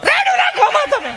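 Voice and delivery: high, dainty, mocking soap-opera husband; mock sweet husband. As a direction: play it sugary and effeminate for laughs.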